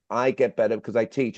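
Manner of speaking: "teach" given the emphasis; stress on TEACH. Shown as a demonstration. Trainer repeating a missed lesson to the group, stress on "teach". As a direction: lean on the word "teach". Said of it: "I even stress on the word teach".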